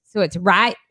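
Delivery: "right" said with no T at the end; dropped T. Shown as a demonstration. Showing how Texans say "right", dropping the T. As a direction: clip off the T of "right". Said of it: "leave the T off of right".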